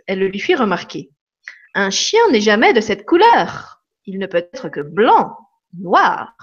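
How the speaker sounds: lively read-aloud with swinging tune; story reading. Acted. Reading from the book to live viewers, expressively. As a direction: read the anecdote to the audience with expressive ups and downs.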